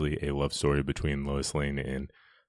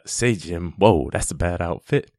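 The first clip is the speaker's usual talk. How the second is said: loud, lively impression of a bystander; bystander's delivery; 2 semitones higher, 5 dB louder than usual. Man reacting to a costumed Superman, lively mimicked delivery. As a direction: quote the amazed passerby, punching it louder. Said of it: "for his delivery".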